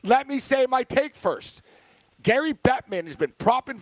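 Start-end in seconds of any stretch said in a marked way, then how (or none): 0.0-1.6 slow, insistent demand for the floor. Real, not acted. Host to interrupting co-host who won't let him finish, insistent. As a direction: spell it out, fed up with interruptions. Cut off repeatedly, demands his turn.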